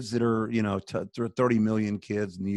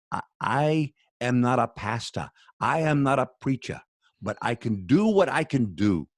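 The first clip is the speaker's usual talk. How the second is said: put-on a lightly done African accent, louder and raised for the Kenyan man's words; 3 semitones higher, 5 dB louder than usual. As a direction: quote the Kenyan man in a mild, put-on African accent, building louder toward "Lord". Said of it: "attempt my African accent".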